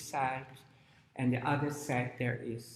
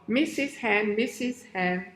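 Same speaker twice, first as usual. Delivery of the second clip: higher sing-song call; 7 semitones higher, 4 dB louder than usual. Acted. Chicks and crocodile call their mother, higher sing-song call. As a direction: call the hen back, twice. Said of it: "and they call".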